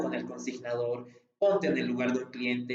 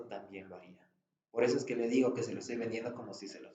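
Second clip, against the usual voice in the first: tone of absolute certainty. Shown as a demonstration. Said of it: "Ese es el tono de seguridad absoluta".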